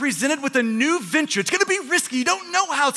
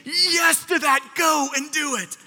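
voice of the Spirit; 4 semitones higher, slower than usual. Acted. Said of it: "that voice is saying".

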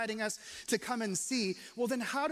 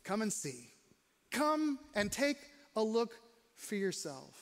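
gentle invitation. Retold or imitated. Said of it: "he just looks and says".

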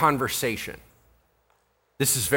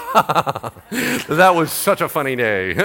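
laughing; slower than usual. Retold or imitated. Luke laughing while writing.

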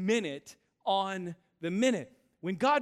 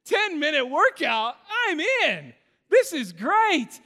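higher and louder, hammed-up eagerness; eager excitement; 6 semitones higher, 5 dB louder than usual. Pastor mocking his own eagerness for the workout, excited. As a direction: sell yourself on an easy workout. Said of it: "I'm like".

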